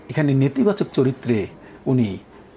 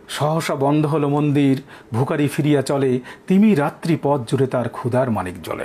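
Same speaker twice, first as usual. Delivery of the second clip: poem recitation. Acted. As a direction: read the stanza out steadily.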